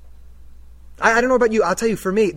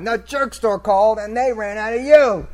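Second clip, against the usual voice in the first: slow, loud gloating punchline; triumphant comeback; 3 semitones higher, 6 dB louder than usual. Retold or imitated. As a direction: finally fire off the line you rehearsed. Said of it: "he uses the jerk store line".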